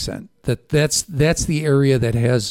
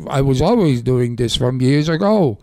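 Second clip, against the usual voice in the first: put-on old comedian voice; old comedian impression. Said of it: "he talks like this".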